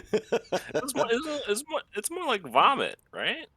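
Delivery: high squeaky voice. Pretend.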